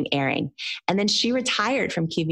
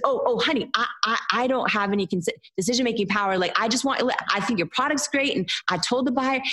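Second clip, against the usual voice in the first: put-on a touch higher, kindly older woman; hint of a soothing TV host; lightly voiced sweet host; 5 semitones higher, faster than usual. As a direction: gently reassure like a sweet host. Host reassuring her, voiced.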